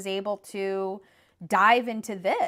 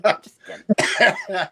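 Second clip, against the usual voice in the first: laughing reassurance; 8 dB louder, much slower than usual. Retold or imitated.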